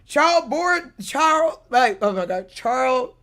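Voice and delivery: stumbling over "charboard", breaking off at "char-"; tongue-tied attempts. Real, not acted. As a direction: try "charboard", then get stuck on "char-" and "charl-". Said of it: "I can't even say it".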